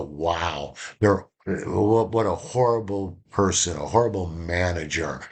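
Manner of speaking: contemptuous. Shown as a demonstration. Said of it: "they go".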